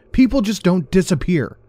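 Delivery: furious shout. Acted. Andrew shoves Daniel and yells in fury. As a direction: spit it out in rage.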